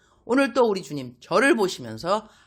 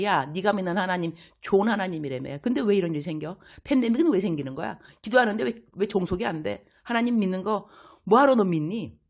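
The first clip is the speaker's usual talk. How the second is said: higher, mocking taunt; jeering neighbour; 4 semitones higher than usual. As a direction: jab the questions at the believer.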